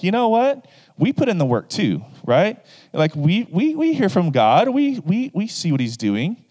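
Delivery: high, whiny mock complaint; jealous siblings. Aaron and Miriam griping about Moses, high and whiny. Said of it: "Aaron and Miriam are like".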